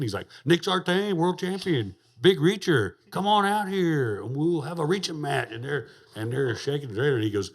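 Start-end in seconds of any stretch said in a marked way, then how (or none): 0.4-5.5 high, loud mock drunken holler; drunk challenge. Drunk man outside taunting the champion to come out, loud mock holler. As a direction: bellow the dare at the trailer door.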